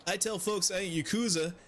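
fumbling fake Swedish NPC voice; half-hearted Swedish accent drifting toward generic European; attempted Swedish accent. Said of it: "I try to do Swedish".

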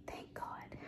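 barely audible whisper; hushed, voiceless sigh of thanks; whispered relief. Real, not acted. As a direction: whisper it to yourself in tired relief. Tired late-night reader, household asleep.

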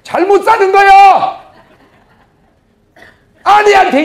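high, loud, slow proclamation; preaching shout. Real, not acted. 설교자가 남편들에게 아주 높고 크게 외침. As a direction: shout the warning at full force.

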